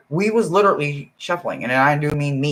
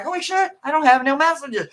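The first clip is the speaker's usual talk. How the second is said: mock panic; 14 semitones higher, 3 dB louder, faster than usual. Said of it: "and I'm like".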